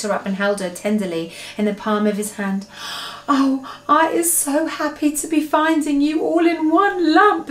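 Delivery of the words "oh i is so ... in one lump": high, tender giant voice; happy relief. A narrator's reading. BFG has found Sophie unhurt, relieved.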